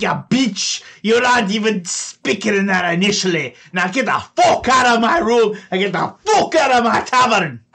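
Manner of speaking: very high, loud screaming halfling; furious halfling. Acted. Halfling screaming at the thief in his tap room, very high furious yell. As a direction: scream it, outraged.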